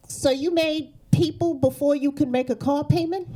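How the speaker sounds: high, judgmental questioning; mock incredulous. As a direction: question her choices in a high, disbelieving voice. Confronts mother with baby on bus.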